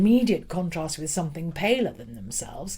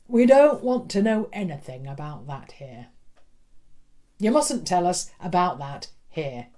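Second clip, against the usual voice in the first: stern schoolmaster; 5 dB louder than usual. Acted. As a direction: lay down the law. Stern schoolmaster rebukes pupil.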